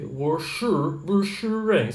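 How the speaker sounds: WOSHI REN in two careful parts, rising then falling high; Mandarin pronunciation demo. Shown as a demonstration. Teacher repeating the Mandarin example, WOSHI REN in careful tones. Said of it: "esse é mandarim".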